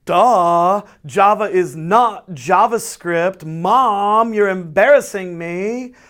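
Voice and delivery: put-on whiny, slow teen groan at mom; sullen teenager voice. Shown as a demonstration. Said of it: "say this in a sullen teenager's voice".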